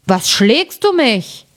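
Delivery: slow, drowsy giant grumbling; a groggy giant, slow and heavy; lightly voiced sleepy giant. A narrator's reading. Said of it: "stieß seinen Gefährten an und sprach".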